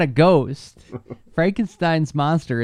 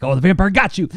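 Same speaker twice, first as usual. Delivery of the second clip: commercial voice imitation; 5 semitones higher, 5 dB louder, faster than usual. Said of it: "there's a part like".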